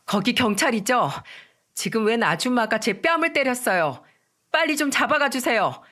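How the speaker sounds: half-loud urgent report of a slap. Retold or imitated. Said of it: "큰 목소리로 말했죠".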